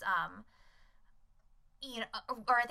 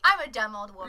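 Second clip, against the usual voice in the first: laughing self-mockery; 7 dB louder, faster than usual. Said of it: "instantly she was like".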